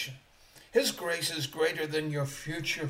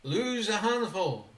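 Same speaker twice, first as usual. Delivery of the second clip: mock misquote; 5 semitones higher, 4 dB louder than usual. Shown as a demonstration. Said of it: "No, no, no, no".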